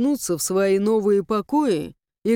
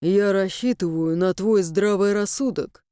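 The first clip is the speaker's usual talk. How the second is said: serious; 2 semitones lower than usual. Acted. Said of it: "серьёзно произнёс Инамир".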